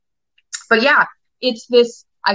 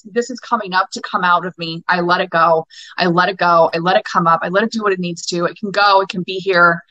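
spoken affirmation. Shown as a demonstration. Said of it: "Say it out loud".

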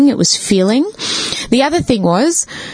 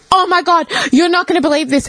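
excited gasp; 9 semitones higher than usual. Retold or imitated. Telling her brother what happened, high and excited. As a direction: gush it out like big news. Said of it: "I'm like".

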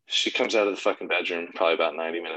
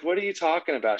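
a touch higher, incredulous; mock disbelief; 9 semitones higher than usual. Husband baffled by his wife's complaint, incredulous. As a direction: play it baffled at the wife. Retold own incredulous reply.

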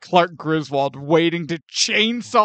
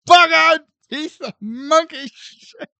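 slow, loud, high mock rant; Chevy Chase rant; 7 semitones higher, 5 dB louder, slower than usual. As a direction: spit out each insult. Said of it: "Chevy Chase's voice".

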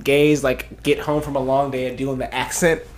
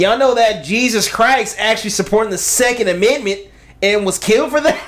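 higher-pitched mock Southern twang; Southern accent; 4 semitones higher than usual. Friend reads the Second Amendment line, Southern accent. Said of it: "This next one is a Southern accent".

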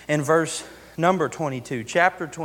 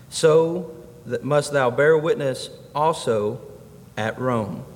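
formal pulpit Bible reading; solemn scripture reading. Acted. Reads scripture aloud.

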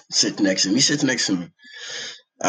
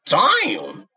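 high disgusted damn; 9 semitones higher than usual. Retold or imitated. Reacting to stench.

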